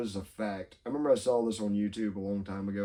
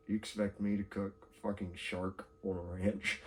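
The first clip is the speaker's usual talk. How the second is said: low mock confusion; 3 semitones lower, 11 dB quieter than usual. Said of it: "And I'm like".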